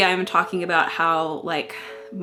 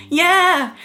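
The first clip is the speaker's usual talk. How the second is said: laughing; 9 semitones higher, 6 dB louder than usual. Real, not acted. Laughing at old entry.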